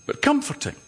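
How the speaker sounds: mock reassuring. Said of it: "Wise and reassuring".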